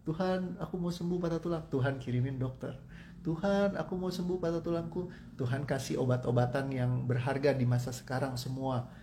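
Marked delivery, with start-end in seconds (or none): 0.0-1.6 pleading prayer. Pretend. 3.2-5.1 pleading prayer. Pretend.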